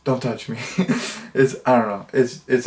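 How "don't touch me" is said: calm deadpan. Retold or imitated. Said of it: "so calmly and straight-faced".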